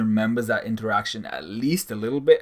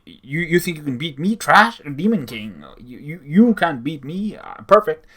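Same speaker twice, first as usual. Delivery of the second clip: higher, louder hammed-up villain bragging; mock bragging Demon King; 5 semitones higher, 5 dB louder than usual. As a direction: parody the villain's empty threats. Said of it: "the Demon King's speech".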